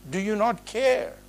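mildly indignant quoted challenge; imitating an affronted demand; agitated reproach. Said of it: "would speak to a guest like this".

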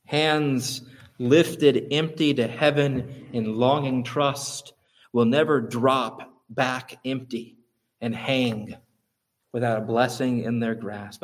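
slow, weighty reading; a preacher closing with a quote, slow and solemn; solemn quotation. Shown as a demonstration. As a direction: read the quote with reverence. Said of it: "he says this".

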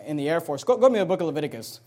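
ordinary talk, nothing marked

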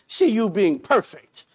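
low-pitched, dry sarcasm in a quote; quoted line with a sarcastic edge. Retold or imitated. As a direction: retell it with understated sarcasm. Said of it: "Uh, the sarcasm".

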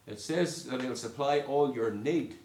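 all lifted and leaned on; stress on all. Shown as a demonstration. Preacher urging the congregation, all stressed. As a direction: hit the word all with a rising lift. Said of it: "can I emphasise the word that's used?".

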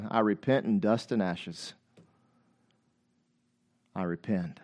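very low, hushed confession; humbled repentance. Acted. Preacher voices Job finally repenting before God, humbled and hushed. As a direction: drop right down, soft and subdued.

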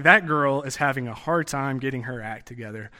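sugary condescending sigh over a hopeless case; mock-sweet Southern pity. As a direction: feign sympathy while talking down. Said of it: "It's used in the context like".

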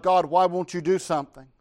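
desperate prophet's cry; Habakkuk crying out. Acted. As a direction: demand an answer from God. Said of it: "He cries out".

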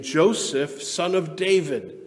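slow, drawn-out call by name; angel calling. Acted. Angel to Joseph in a dream, calling out. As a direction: call out to him as a heavenly herald. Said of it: "the angel of the Lord appeared".

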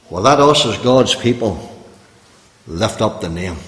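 preacher hushing the room, tender; hushed appeal. Real, not acted. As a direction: sink to a hush for weight.

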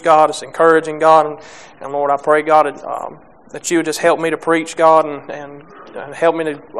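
prayer. Real, not acted. Opening prayer before preaching.

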